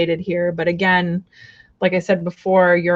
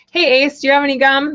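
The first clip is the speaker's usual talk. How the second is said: Ace Ventura quote; 6 semitones higher, 4 dB louder, faster than usual. Retold or imitated. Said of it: "like, Ace Ventura".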